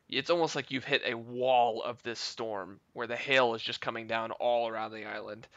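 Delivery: game master narrating the scene; scene setting narration. A narrator's reading. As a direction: set the scene for the players. GM sets the scene.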